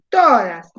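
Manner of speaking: "todas" with TO projected and drawn out; emphatic "todas", first syllable leading; called out, exaggerated. Shown as a demonstration. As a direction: call out TO and let DAS fall in "todas". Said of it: "Díganlo en voz alta, grítenlo".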